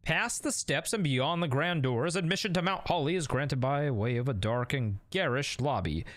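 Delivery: lightly dramatic narrator voice setting the scene; story narration. Acted. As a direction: read it like the opening of a mystery novel. Reads game narration aloud.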